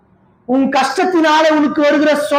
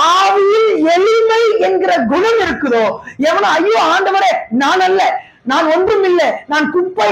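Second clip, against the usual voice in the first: tearful plea; 5 semitones higher than usual. Acted. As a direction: wail it out in humble contrition. Preacher voicing humble sinner crying.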